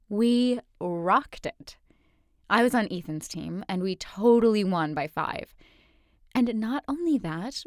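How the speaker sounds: bubbly friend bragging; excited bragging. Acted. Friend brags about win.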